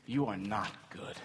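low, soft reproach; subdued accusation. Acted. Sufferer accusing God in pain, subdued accusation. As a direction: say it quietly, without force.

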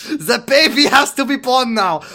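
high mock-urgent doctor; hammy urgent doctor. Doctor James voiced comically.

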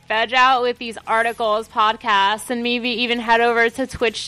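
a hint of eighties valley teen; lightly played airhead teen; valley girl. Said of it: "get you to a doctor".

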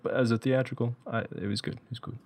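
a faint, badly faked English accent. Imitating the swordmaster's verdict in a weak English accent. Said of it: "That's a terrible English accent".

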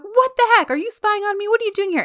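high-pitched, indignant retelling; mock indignation. She confronts him for spying, mock indignant.

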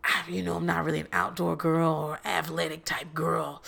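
a hint of a mocking girl voice; mock New York voice. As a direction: drop into a soft lazy mimic of her. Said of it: "He's just like".

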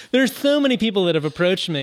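giggly and a little tipsy; laughing through tipsy words. Real, not acted. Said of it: "Sorry, I'm a little tipsy".

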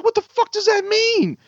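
high-pitched incredulous rant; retold sarcastic blow-up; exasperated outburst. Driver rejecting the truck owner's excuse, exasperated.

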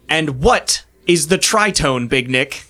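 slow, lightly voiced demanding professor; a mild hint of a teacher catching a dozing student; stern professor. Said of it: "Professor Veda slams the table".

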